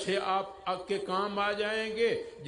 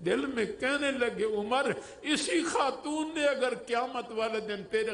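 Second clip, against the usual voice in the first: higher, weepy inner voice; a ruler breaking down as he speaks to himself; tearful caliph; 5 semitones higher than usual. Acted. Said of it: "فاروق اعظم رونا شروع ہو گئے". (روتے ہوئے، اونچی لرزتی آواز میں)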